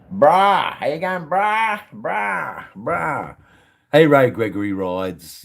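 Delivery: high, drawn-out mock greeting cry; playful calling out. Streamer hailing the live chat, playfully calling out. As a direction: call each "brah" high and let it fall.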